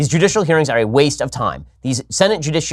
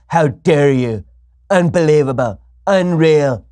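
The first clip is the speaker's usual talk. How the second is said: mock Trump rant. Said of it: "President Trump's response is".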